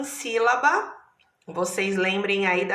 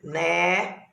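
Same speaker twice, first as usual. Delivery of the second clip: "Né" held out on its own; isolated syllable. Shown as a demonstration. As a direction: say "Né" as one separate piece of a word, lengthened. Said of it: "eu já tô dividindo". ("Né" como sílaba isolada e alongada)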